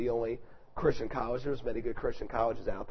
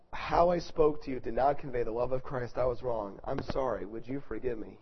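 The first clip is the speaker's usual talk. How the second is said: retold apology, gradually softening; sincere apology; 2 semitones lower than usual. Hall leader to student after harsh words, measured sincere apology. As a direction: apologize plainly, easing down at the request. Retells his apology to Sean.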